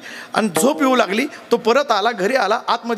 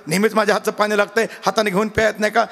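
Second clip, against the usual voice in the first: angry scolding. Retold or imitated. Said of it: "मग मात्र तिचं मस्त गरम झालं".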